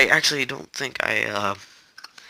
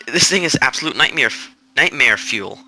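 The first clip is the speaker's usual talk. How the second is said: gritted teeth. Real, not acted. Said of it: "gritting my teeth in a nerdy accent".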